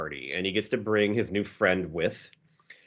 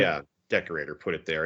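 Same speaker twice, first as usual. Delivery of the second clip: low-pitched, uninterested brush-off; imitated disinterest; 5 semitones lower than usual. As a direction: answer as if you couldn't care less. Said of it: "He couldn't be more, less interested".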